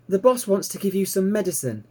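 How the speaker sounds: put-on high, bright young piglet voice, thrilled; piglet Babe, delighted. A narrator's reading. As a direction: squeal it out like an excited little pig. Babe speaks to Ma.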